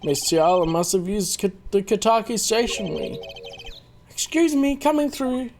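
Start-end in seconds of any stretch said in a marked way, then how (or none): 4.1-5.5 much higher, polite squeeze-past voice; high-voiced passerby. A character pushing through the crowd, high and polite. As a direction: lift the voice up to edge past the crowd.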